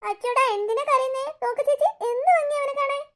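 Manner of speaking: put-on high, cooing baby-talk. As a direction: coo over an adorable crying child. Cooing over a crying child. (കൊഞ്ചിച്ച് ഉയർന്ന ശബ്ദത്തിൽ)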